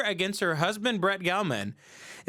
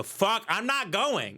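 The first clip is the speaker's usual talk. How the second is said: higher, drawn-out mock refusal; refusing husband; 4 semitones higher, slower than usual. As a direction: dig in like a fed-up husband. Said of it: "And you go".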